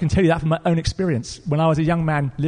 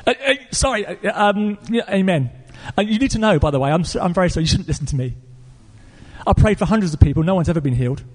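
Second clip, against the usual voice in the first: flustered apology; 3 semitones higher than usual. Retold or imitated. Pastor takes back his promise to the caller, flustered apology. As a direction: imitate an embarrassed, halting retraction.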